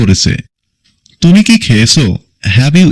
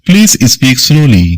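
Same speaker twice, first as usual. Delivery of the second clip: drawn out word by word for learners; slow classroom dictation; very slow model sentence; 2 semitones higher, much slower than usual. Shown as a demonstration. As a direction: read it slowly like a dictation. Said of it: "repeat of model, slowed".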